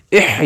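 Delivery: اہ with a forced, throaty h; wrongly stressed h. Shown as a demonstration. Teacher shows what not to do, stressed اہ. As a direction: lean too hard on the h of اہ. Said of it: "stress نہیں دینا".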